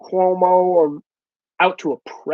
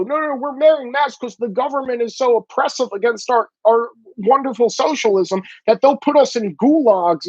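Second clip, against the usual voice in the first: higher-pitched mock protester whine of excuse; lightly mock an indignant activist, pitched up; 5 semitones higher than usual. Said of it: "They try to go".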